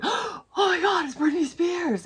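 high, gasping starstruck fan impression; mock starstruck squeal; imitated freak-out. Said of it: "he started freaking out".

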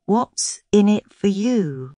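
girl stalling the snake with fake interest; feigned curiosity. A narrator's reading. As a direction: ask as if truly curious while stalling. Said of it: "feigning curiosity".

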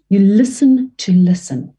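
"listen to listen" said slowly, each listen weighted; slow, deliberate "listen to listen"; slow stress. Shown as a demonstration. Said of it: "as you're saying it again".

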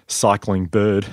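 slow, careful "Cycling bird"; "Cycling bird" said slowly, word by word; mispronounced name. Retold or imitated. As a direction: read out "Cycling bird" as a surname. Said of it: "she said".

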